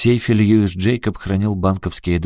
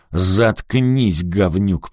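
ordering him to shut up; much slower than usual. Acted. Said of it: "приказал Рикки".

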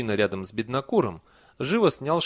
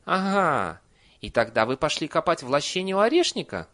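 higher, lilting leading question; sweetly probing; 6 semitones higher, 6 dB louder than usual. A narrator's reading. Nanny checks the villager's story, sweetly probing. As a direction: ask with put-on sweetness. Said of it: "ласково уточнила она".

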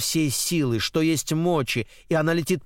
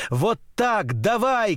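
urging that leaps higher in pitch; excited cry; 7 semitones higher, slower than usual. A narrator's reading. Girl on a swing cheers the pusher on, excited cry. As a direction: cheer him on, climbing higher. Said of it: "кричит она".

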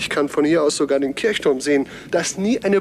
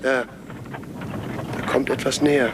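tense, slowed alarm; 2 semitones lower, much slower than usual. Acted. Something approaches in the street.

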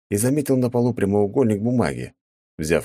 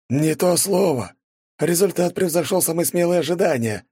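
delighted; 11 semitones higher than usual. A narrator's reading. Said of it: "восхитился Панфилов".

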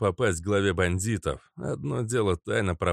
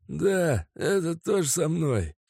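high thug voice; 9 semitones higher than usual. Acted. Mazut answers.

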